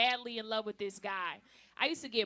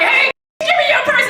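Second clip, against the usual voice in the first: mugger; 18 dB louder than usual. Retold or imitated. Mugger voiced in story.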